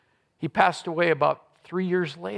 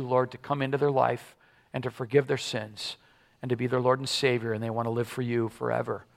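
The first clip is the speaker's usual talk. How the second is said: prayer. Acted. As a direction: pray it gently to the Father. Closing prayer.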